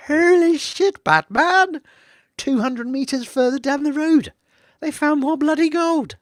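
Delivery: loud, high-pitched whoop of amazement; excited shouting. Acted. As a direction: shout it like a huge discovery. Mock amazement at drilling results.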